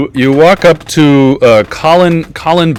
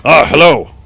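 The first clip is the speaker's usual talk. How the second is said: put-on higher-pitched, unconvincing Scottish accent; attempted Scottish accent; 4 semitones higher, 5 dB louder than usual. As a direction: greet them with a shaky stab at a Scottish accent. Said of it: "talks in a Scottish accent".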